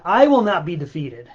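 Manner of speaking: loud defiant vow. Real, not acted. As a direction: declare it like a battle cry. Defiant vow after rant.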